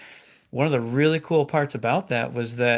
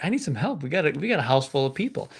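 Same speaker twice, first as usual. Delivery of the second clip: mildly frustrated; 2 semitones higher, faster than usual. Retold or imitated. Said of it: "she's getting a little frustrated".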